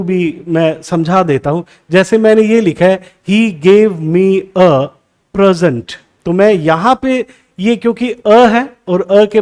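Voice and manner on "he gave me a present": "present" stressed on the first syllable, PREZ-ent; noun stress. Shown as a demonstration. Teacher reads an example sentence, noun stress on "present". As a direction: say "present" as a noun, weight on PRES. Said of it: "noun है तो stress कहाँ होना चाहिए".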